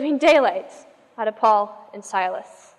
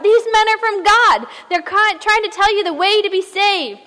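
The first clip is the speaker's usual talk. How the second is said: higher mock scream; a raised, lightly voiced scream from the girl; 5 semitones higher than usual. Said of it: "she screams out".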